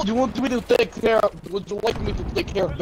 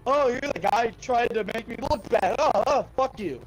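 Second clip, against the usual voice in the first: slightly raised, mocking retort; imagined YouTuber's retort; 4 semitones higher than usual. Imagined YouTuber confronting the guy who made him look bad, mock indignation. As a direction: imitate him calling someone out. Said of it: "he'd be like".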